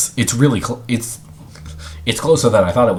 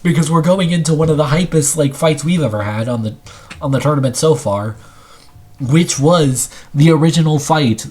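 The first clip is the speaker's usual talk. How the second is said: hype fight announcer; 3 semitones higher than usual. Real, not acted. Introduces the next fight.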